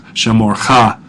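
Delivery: "shamorcha" with the accent on the final "cha"; "shamorcha", last syllable "cha" stressed. Shown as a demonstration. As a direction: land on "cha" at the end of "shamorcha". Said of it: "Notice where the accent is there on the cha".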